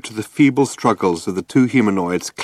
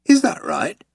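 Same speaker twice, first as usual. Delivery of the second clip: Vogon captain; 10 semitones higher than usual. A narrator's reading.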